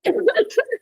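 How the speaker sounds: choking cough after water went down the wrong pipe; sputtering, coughing fit. Real, not acted. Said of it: "Are you okay?".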